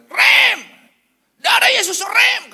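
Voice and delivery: very high, loud panicked yell; screaming in panic. Retold or imitated. Wife screams at her husband to brake, panicked shout. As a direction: scream out an urgent warning. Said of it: "teriak istri saya".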